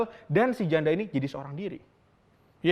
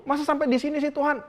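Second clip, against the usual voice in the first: high, pleading question to God; desperate plea; 9 semitones higher than usual. Retold or imitated. Elia pleading with God not to end here: high anguished plea. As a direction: ask it like a last desperate hope. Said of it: "Berusaha banget".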